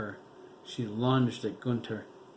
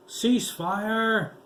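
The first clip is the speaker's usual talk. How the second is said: high, loud yelled order; 11 semitones higher, 7 dB louder than usual. A narrator's reading. Commander yelling at guards to stop firing. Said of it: "Tamashka yelled".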